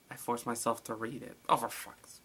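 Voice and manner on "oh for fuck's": breathy hushed swear; startled whispered cuss; whispered curse. Real, not acted. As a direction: mutter it under your breath. Reading scary note, whispered curse.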